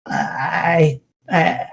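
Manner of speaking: mild nervous stammer, rising at the end. Acted. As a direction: plead in a nervous rush. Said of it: "very nervously".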